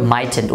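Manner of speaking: "mightn't" said as "MAI-tent", two syllables; pronunciation model. Shown as a demonstration. Teacher models pronunciation for students, "mightn't" as "mai-tent". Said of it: "উচ্চারণটা শিখে রাখতে পারো".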